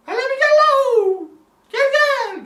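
high, drawn-out holler; shouted summons. Retold or imitated. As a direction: yell for someone to come, loud and slow. Acted shouted summons to grandmother. (tiz sesle bağırarak çağırma)

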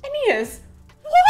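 high-pitched baffled protest; exasperated disbelief. Acted. Frustrated reader addresses Aeneas after rereading, incredulous. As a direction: call him out, utterly baffled.

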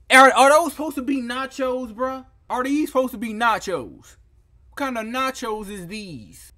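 high, loud, disgusted yell; disgusted shout. Real, not acted. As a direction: yell it at the plate in disbelief. Shocked at a plate of nachos.

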